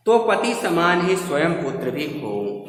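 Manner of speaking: declaimed line of verse; verse recitation. Shown as a demonstration. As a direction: recite it as poetry. Reciting a verse before explaining it.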